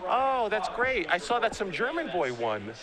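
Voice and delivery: a lightly voiced cheerful mother; imitating his mom.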